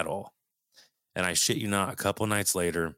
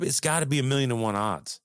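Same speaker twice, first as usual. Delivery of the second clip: higher-pitched, mildly incredulous; retold amazement; 7 semitones higher, 3 dB louder than usual. Man retelling his Walmart odds to the host, amazed. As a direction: lift the pitch in disbelief at the coincidence.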